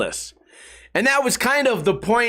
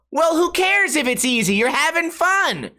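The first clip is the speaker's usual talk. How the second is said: mock commenter voice; 6 semitones higher than usual. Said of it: "And they go".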